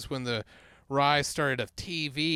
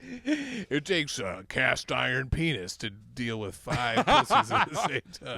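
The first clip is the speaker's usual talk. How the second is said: laughing. Real, not acted. Laughing through a crude joke.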